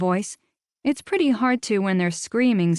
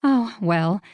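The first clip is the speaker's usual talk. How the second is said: deflated oh well; 2 semitones higher than usual. Acted. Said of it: "Rita sighed heavily into the phone".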